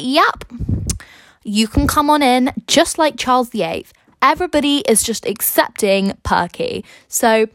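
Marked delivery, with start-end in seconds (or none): 0.0-2.5 higher-pitched, casual quoted welcome; lightly acted, lilting invitation; breezy welcoming king. James the fourth lets Perky in, breezy welcome.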